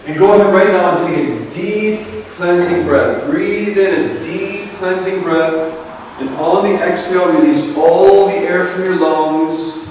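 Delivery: slow, calm breathing guidance with long pauses; guided meditation. Acted. Leading the group into relaxation, calm meditation voice.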